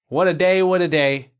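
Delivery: loud line-read in a Bronx accent; feed the line with Bronx projection. Shown as a demonstration. Director feeding the actress her line, Bronx accent. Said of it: "This is my accent".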